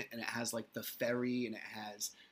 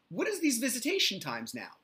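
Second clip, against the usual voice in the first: much higher, louder indignant question; retelling frustration at the new times, voice pitched way up; exasperated high rant; 10 semitones higher, 4 dB louder than usual. Retold or imitated. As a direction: sound fed up with the schedule. Venting about visitation schedule.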